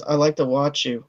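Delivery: low, soft mock flirtation; quiet, low come-on; smooth flirting. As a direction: imitate a smooth-talking husband, voice dropped. Imitates Castor's smooth flirting.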